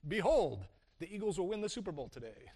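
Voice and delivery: a lightly hammed-up archaic Behold, then quick; playfully mock the King James tone; mock old Bible voice. Joking to the congregation, mock solemn Behold. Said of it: "We don't talk like that".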